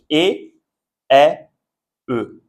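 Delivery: "et, est, E" as closed é, open è, neutral "uh"; three E sounds. Shown as a demonstration. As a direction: contrast "et, est, E" one by one, pausing between. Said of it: "on prononce différemment". (et, est, E, trois sons distincts)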